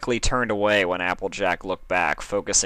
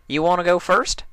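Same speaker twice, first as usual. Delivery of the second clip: higher, louder Applejack farewell; bright friendly country goodbye; country mare; 11 semitones higher, 4 dB louder than usual. Acted. Applejack saying goodbye to Dash, high and cheery.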